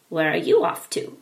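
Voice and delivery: put-on a funny old man hailing a boy.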